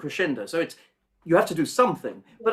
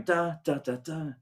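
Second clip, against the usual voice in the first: too rhythmic da da; 2 semitones lower, 4 dB quieter than usual. Shown as a demonstration. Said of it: "it's just getting a bit too energetic".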